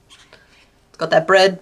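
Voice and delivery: slow, breathy whisper of devotion; dreamy whisper. Acted. Praising pizza to chat, slow reverent whisper. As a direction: whisper it like a confession of love.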